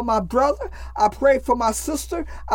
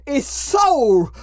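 preaching at full force. Acted. Casts out demons in prayer.

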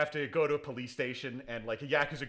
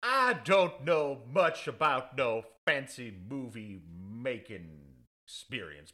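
country lawyer drawl; slower than usual. Pretend. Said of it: "simple country lawyer".

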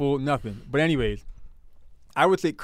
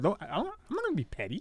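laughing; 7 semitones higher, 7 dB quieter, much faster than usual. Real, not acted. Laughs while teasing partner.

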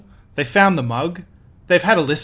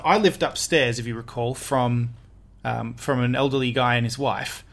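low, soft, hesitant creepiness; quietly creepy, with halting pauses; 3 semitones lower, 4 dB quieter than usual. Real, not acted. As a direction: say it a touch creepily, trailing low. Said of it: "Why'd you say it so creepily?".

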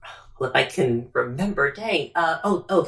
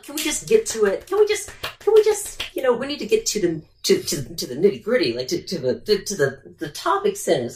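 impatient hurry-up; 4 semitones higher than usual. Retold or imitated. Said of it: "I'm like".

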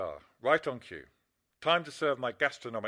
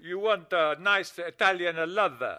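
mock Italian lover; 2 semitones higher, 3 dB louder than usual. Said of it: "that phony Italian accent".

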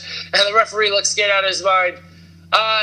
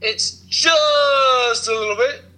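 hammed-up wail; 3 semitones higher, slower than usual. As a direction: keep the silly wail going.

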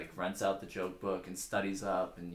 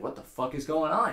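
high, loud, alarmed question; acted terrified; 8 semitones higher, 8 dB louder than usual. Joke teller as the new prisoner baffled by the yelling, mock terror. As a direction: play up the panic, pitch raised. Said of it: "He's terrified".

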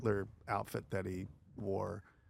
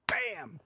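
high-pitched sudden "bam"; mimed punch impact. Retold or imitated. Telling friend about getting hit, high impact noise.

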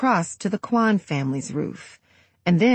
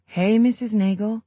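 gentle; 5 semitones higher than usual. Acted. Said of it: "I say as gently as I can".

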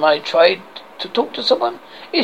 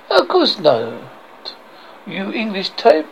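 drawn-out mock French refusal; outrageous French accent; slower than usual. French guard refuses Arthur a look, outrageous French accent. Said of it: "I have this outrageous accent".

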